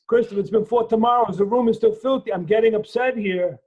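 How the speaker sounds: put-on father scolding his teenage son, exasperated and loud. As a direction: let the frustration break through at your son. Dad scolding son over room.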